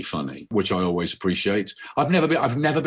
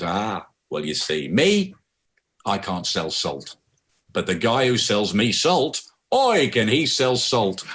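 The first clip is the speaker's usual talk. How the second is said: grocer's voice; slower than usual. Retold or imitated. Jewish grocer answers the customer.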